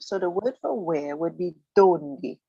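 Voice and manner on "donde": donde hit hard on DON, falling after; stress on DON. Shown as a demonstration. Teacher explaining the accented O, donde stressed DON-de. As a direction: punch the first syllable of donde. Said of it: "you'll find the stress goes there".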